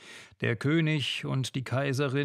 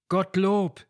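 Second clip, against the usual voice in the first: higher, louder shout of relief; loud joyful cry; 6 semitones higher, 6 dB louder than usual. Acted. Families greet the returning soldiers with a loud joyful cry. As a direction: cry out thanks to God. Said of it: "rief Kind und Gattin laut".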